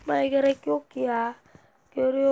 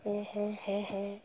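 quiet nervous laugh; 3 semitones lower, 8 dB quieter than usual. Real, not acted. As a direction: lower and soft, shaken. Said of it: "Gerçekten korktum".

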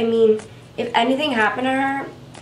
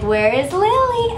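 higher, slow sing-song call for a lost pet; calling for the dog; 9 semitones higher, slower than usual. Retold or imitated. Searching the house for her dog, a high slow call. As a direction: call out to find the hiding dog. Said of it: "I look for her and I'm like".

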